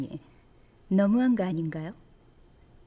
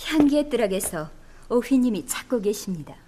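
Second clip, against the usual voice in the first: whisper; 2 semitones lower, much faster than usual. Acted. Servant quietly reports to mother.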